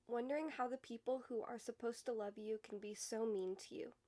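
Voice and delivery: measured, understated spoken-word recital; slam poetry reading. Acted. Poet reading her morning's poem to viewers, understated slam poetry. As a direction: read it as an intimate poem, letting line endings fall away.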